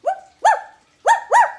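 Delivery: high, loud barks; dog barking. Shown as a demonstration. Storyteller showing children what a dog says, loud high woofs. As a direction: bark like an excited little dog. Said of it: "What does a dog say?".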